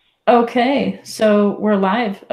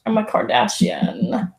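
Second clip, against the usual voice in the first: California crackle; 2 semitones higher, slower than usual. Shown as a demonstration. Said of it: "makes fun of me for that".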